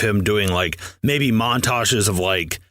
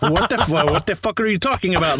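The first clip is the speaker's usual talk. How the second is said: bad, higher-pitched mock Arab accent; attempted Arab accent; 6 semitones higher than usual. Imagined bomber answers the dancer, attempted Arab accent. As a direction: try a clumsy Arab accent, baffled. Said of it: "try and do an Arab accent".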